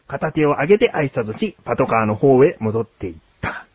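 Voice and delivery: story narration. A narrator's reading. Host telling co-host of a roadside proposal, story narration. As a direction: narrate it like a feature news tale.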